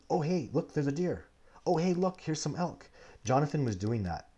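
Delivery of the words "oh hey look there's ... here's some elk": high, eager pointing things out; like a kid spotting animals; excited. Retold or imitated. Student's excited spotting, acted quote.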